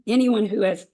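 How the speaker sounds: a touch of morning hoarseness; slightly rough, just-woken voice. Real, not acted. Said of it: "my morning voice".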